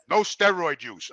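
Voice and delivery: low, slow, meek reading of "No steroid use"; the timid clerk reads the rule slowly; imitating the clerk. Clerk reading the rule to Jimmy, low and slow.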